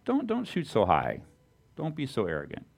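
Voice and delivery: high, hushed mock put-down; discouraging voices. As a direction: sneer down at them softly. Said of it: "other people coming and saying".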